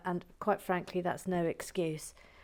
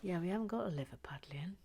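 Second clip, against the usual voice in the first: quiet aside; 6 dB quieter, faster than usual. Real, not acted.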